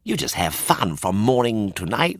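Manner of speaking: quick, rising to very high and coaxing; tempting Lampwick. A narrator's reading. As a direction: lure him in, building excitement. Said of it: "said Lampwick".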